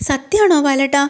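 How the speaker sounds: high, excited disbelief; wife gasping out her question, voiced high; astonished wife. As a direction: ask if it is really true, eyes wide.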